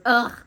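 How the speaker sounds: short mock "ugh"; imitated grunt. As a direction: grunt it like someone being squeezed. He grunts, held in death grip.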